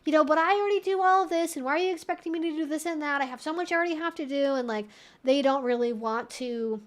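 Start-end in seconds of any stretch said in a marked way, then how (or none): none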